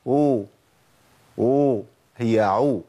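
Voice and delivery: drawn-out "أو" in place of the ayn; common mispronunciation. Retold or imitated. Teacher mimicking what many people say, mispronounced "أو". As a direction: imitate learners blurring "عو" into "أو". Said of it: "بسمع ناس كتير بتقول إيه".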